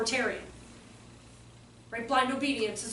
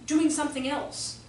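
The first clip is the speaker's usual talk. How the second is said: 小孩说话的语气; 5 dB louder than usual. Retold or imitated. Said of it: "that's not how a two-year-old would say it".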